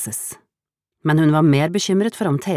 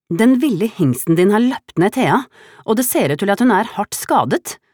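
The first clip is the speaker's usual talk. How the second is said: higher, louder distressed plea; desperate; 8 semitones higher, 5 dB louder than usual. A narrator's reading. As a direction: speak out in anguish. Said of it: "sa Solveig fortvilet".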